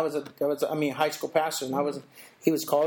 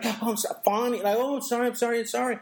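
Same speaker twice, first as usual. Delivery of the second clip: mock fawning apology, higher; toady apology; 4 semitones higher than usual. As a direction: grovel over and over, lightly mocked. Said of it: "it's kind of a toady-ish thing".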